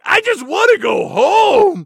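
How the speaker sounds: put-on high, loud, slow wailing kid; whiny wail. Michael wailing to the doctor, high loud and slow. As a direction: wail it like a homesick child. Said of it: "just going like".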